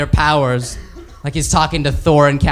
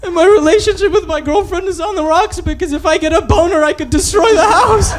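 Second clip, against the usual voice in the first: mock crying; 11 semitones higher than usual. Banner sobbing to the Avengers in a hammed-up wail. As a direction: wail it like a sad man-child. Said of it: "I'm crying".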